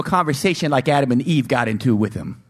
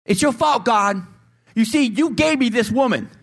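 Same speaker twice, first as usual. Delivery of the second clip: whining blame; 3 semitones higher than usual. Acted. Adam whining to God that the woman is to blame. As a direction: shift the blame, pleading.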